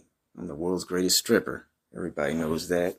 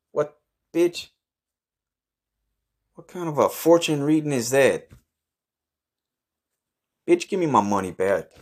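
high, loud, indignant squawk; can't believe the fortune, pitch leaps; outraged disbelief; 7 semitones higher, 4 dB louder than usual. Acted. Man told he's gonna die, high outraged disbelief.

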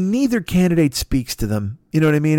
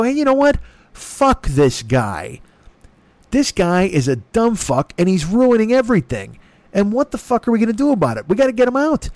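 fired-up Biden; 4 semitones higher than usual. Pretend. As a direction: come out swinging, mock rally tone. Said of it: "Don't you wish Biden would just go".

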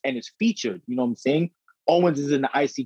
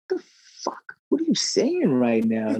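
slow, mock-incredulous reaction; drawn-out comic disbelief; imitated bafflement; 2 semitones lower than usual. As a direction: spell out a kid's confusion, slowly. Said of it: "she be looking at her like".

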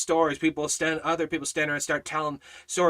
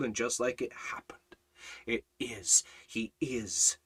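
whispered; 2 semitones lower, 3 dB quieter than usual. Acted. Hushed turn after loud build.

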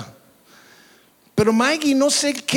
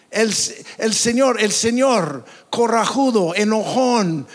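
falsa lectura burlona; 3 semitones higher than usual. Retold or imitated. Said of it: "Estoy leyendo mal".

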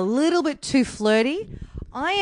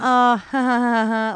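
awkward forced little laugh; nervous laugh. Retold or imitated. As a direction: fake a nervous giggle. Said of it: "I just laughed nervously".

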